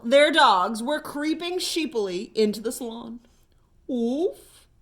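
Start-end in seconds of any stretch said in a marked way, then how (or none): 3.9-4.7 hopeful dog woof. Acted. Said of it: "asked Brute hopefully".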